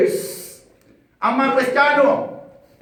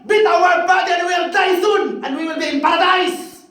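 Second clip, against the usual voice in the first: defiant martyrs' cry; 3 semitones higher than usual. Retold or imitated. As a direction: shout it like a martyr daring the crowd. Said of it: "sinasabi po nila".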